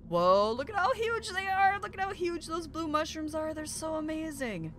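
high, gushing wonder; awestruck. Real, not acted. Player seeing huge blue mushrooms, awestruck. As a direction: marvel aloud, starting high.

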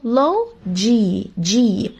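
لو and جي split apart very slowly; syllable by syllable. Shown as a demonstration. Teacher breaking technology into parts, very slow. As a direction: spell out the word in slow separate beats.

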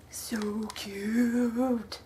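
whispered adoration; hushed so-cute whisper. Real, not acted. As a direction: breathe it out in a whisper. Admiring sparkly keychain.

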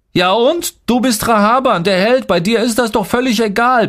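high-pitched, heated outburst; angry berating. A narrator's reading. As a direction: lash out at him in agitation. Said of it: "beschimpfte ich ihn". (aufgebracht beschimpfend, mit hoher Stimme)

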